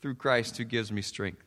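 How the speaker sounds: skimmed over. Shown as a demonstration. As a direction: mumble through it, skimming over. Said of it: "kinda skim over".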